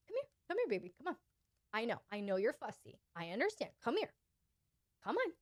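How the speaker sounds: coaxing guide. Shown as a demonstration. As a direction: soothe a fussy little and lead them along. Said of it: "that's a time for you to guide".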